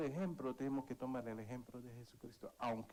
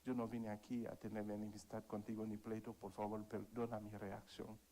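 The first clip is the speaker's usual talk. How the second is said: sincere apology; 2 semitones lower, 5 dB quieter than usual. Retold or imitated. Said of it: "le dije".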